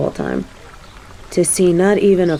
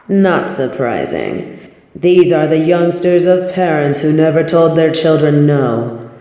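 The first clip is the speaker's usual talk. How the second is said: lordly disdain. Acted. Otherworldly figure judges visitors.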